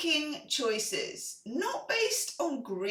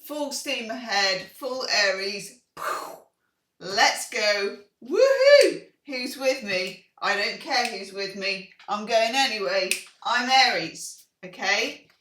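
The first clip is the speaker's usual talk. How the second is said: roaring rallying speech; 7 dB louder than usual. Acted. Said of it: "this is you when you're absolutely on one".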